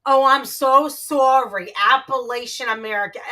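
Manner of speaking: loud, drawn-out mock sorry; exaggeratedly slow fake apology; sarcastic apology. Real, not acted. Sarcastic apology to corrected chatter.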